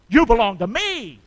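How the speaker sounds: shouted charge to fathers; loud urging. Shown as a demonstration. Preacher urging fathers loudly to claim their kids. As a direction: call it out so every dad hears. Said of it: "Tell 'em".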